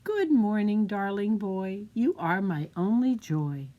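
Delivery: mother's voice. Acted. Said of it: "his mother said".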